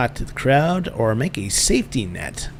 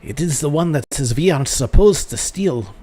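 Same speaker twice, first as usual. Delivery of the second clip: put-on French accent; 3 semitones higher, 3 dB louder than usual. Pupil answering the master, in an attempted French accent. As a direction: have a go at sounding French. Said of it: "she's supposed to be French".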